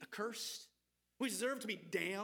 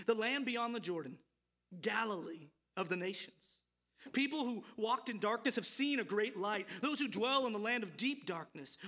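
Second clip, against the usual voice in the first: loud, ringing Bible reading; scripture reading; 3 dB louder than usual. Acted. Preacher reading Isaiah to the congregation, proclaiming loudly. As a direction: proclaim the prophecy to the room.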